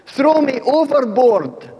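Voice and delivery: slow, high, loud call back to the crew; shouted reply. Acted. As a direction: bellow it over the wind, resigned. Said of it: "And Jonah shouted back".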